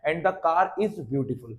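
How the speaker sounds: slow, word by word, like dictation; slow clear reading. Shown as a demonstration. Teacher dictating an example sentence to pupils, slow and clear. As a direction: read the English sentence out slowly for the class. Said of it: "English में ऐसे बोलूंगा".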